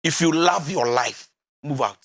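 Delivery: measured, insistent delivery of "love your life"; emphatic repeat. Real, not acted. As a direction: draw out "love your life", then drop "move out" low. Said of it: "And I repeat".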